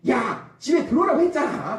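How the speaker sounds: high-pitched mock parental yell. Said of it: "막 소리소리 지르잖아요". (소리 지르는 부모 흉내)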